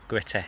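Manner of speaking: Gritty with a hard g and clear t; correct pronunciation. Shown as a demonstration. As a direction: model Gritty slowly with a firm g. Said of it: "you're saying it wrong".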